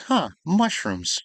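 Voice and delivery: slow mock-curious character voice; mock fascination. Player voicing her character at the mushrooms, mock fascination.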